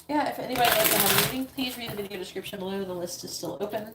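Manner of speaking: talking through a yawn; words stretched by a yawn. Real, not acted. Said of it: "Sorry about the yawning".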